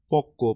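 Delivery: পক্ক said slowly as "pok-ko", with doubled k; doubled consonant. Shown as a demonstration. Teacher illustrating the doubling rule, slow "pok-ko" for পক্ক. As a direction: hold the k across both syllables of পক্ক. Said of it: "যুক্ত ব্যঞ্জনের দ্বিত্ব উচ্চারণ হয়".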